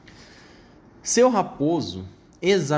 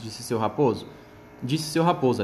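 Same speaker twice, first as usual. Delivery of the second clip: ordinary delivery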